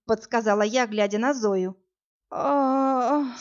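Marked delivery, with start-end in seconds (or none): 2.3-3.4 faint drawn-out groan of pain; weak moan. A narrator's reading. Wounded Zoya coming round moans weakly. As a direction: moan weakly as if half-conscious. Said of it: "слабо застонала она".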